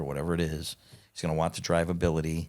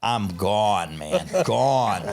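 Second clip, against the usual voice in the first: louder, fired-up retelling of losing it; worked-up outburst; 3 semitones higher, 6 dB louder, much slower than usual. Retold or imitated. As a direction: hit it like you just snapped, louder. Furious at the taunt.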